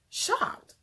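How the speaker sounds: whispered, stunned; breathless shock. Real, not acted. Recalling the snub at the bar, stunned whisper. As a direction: let the word fall out in disbelief.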